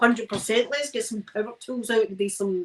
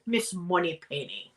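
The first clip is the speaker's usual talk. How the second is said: slow, put-on Scottish accent; Sean Connery; 3 semitones lower, 4 dB quieter than usual. Showing viewers that Connery line, in put-on Scottish. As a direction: stretch it out in exaggerated Scottish. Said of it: "I'm putting on a Scottish accent".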